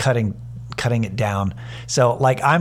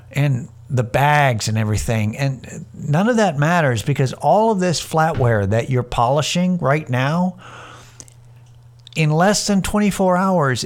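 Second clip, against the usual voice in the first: condescending; 4 semitones higher than usual. Retold or imitated. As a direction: lay the condescension on thick, like explaining to a child. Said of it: "I'm laying it on thick".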